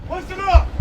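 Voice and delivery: drill sergeant. Real, not acted. Drill sergeant addressing new recruits.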